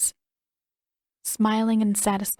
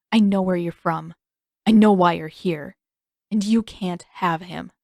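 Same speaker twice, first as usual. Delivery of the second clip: menacing mother voice; 5 dB louder than usual. Acted.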